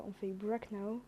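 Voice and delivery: "break now" in a slow, lightly put-on American accent; mock American accent. Tutorial host jokingly says the button name in a slight American accent. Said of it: "Avec mon petit accent américain".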